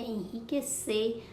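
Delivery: "Enriquecer" slowly, with a breathed R after the N; slow down "Enriquecer" to show the strong R; strong R demonstration. Shown as a demonstration. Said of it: "já tem o som do R forte". ("Enriquecer" devagar, com R forte)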